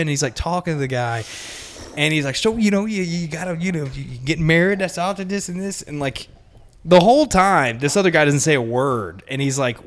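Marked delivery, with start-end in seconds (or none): 2.4-5.8 boss. Retold or imitated. Boss chatting to customer.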